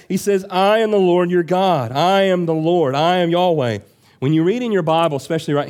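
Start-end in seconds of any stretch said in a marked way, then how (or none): 0.5-3.8 measured emphasis on each "I am the Lord"; emphatic. Retold or imitated. Preacher voicing God's own name to the congregation, emphatic. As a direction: declare "I am Yahweh" firmly, higher-pitched. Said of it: "So God is emphatic here".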